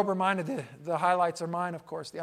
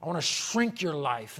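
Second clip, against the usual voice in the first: Satan. Acted. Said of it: "Satan says".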